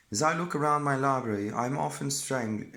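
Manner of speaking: attempted English accent reading. Shown as a demonstration. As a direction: read it in a posh-leaning English accent. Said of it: "I'll do an, I have practiced it anyway".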